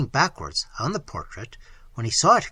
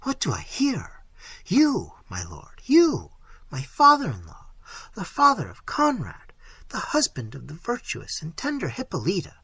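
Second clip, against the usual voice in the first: horrified; 4 semitones higher than usual. Acted. Isabella horrified.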